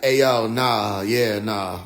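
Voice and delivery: waving off the humans; dismissive alien. Retold or imitated. Aliens turning down the chanting folks, low and amused. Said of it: "were like".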